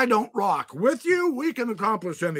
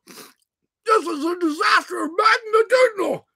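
mock despair; 11 semitones higher, 5 dB louder, slower than usual. Choking on hot dog live.

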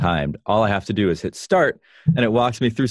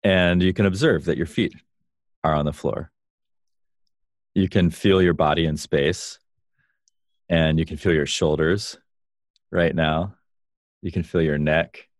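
calm grounding exercise. Shown as a demonstration. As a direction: lead them calmly into their body. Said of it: "Let's, let's do an experiential way".

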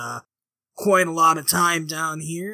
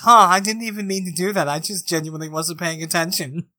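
inner thought; 5 dB louder, faster than usual. Acted. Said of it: "In the back of Mosey's head".

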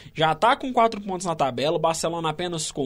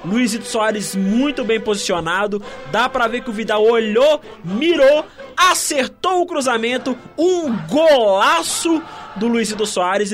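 excited analysis; 5 dB louder than usual. Real, not acted. Analyst still fired up after goal.

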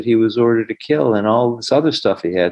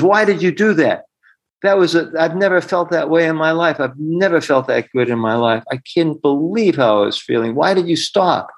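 higher, eager and astonished; bubbling over with wonder at how good she felt; amazed excitement; 6 semitones higher than usual. Retold or imitated. Client to healer after the session, amazed and excited.

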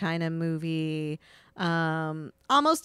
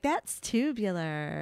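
put-on valley girl; slower than usual. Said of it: "Valley Girl talk".

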